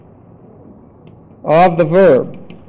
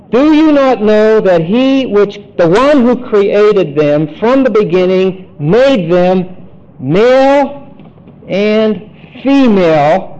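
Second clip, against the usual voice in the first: scripture reading. Acted. Reads scripture aloud.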